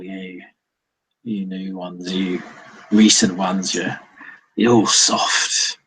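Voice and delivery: put-on grumbling old-timer scorning the young ones; slow, halting old ghoul with punched complaints; lightly voiced old ghoul. Game master plays the ghoul.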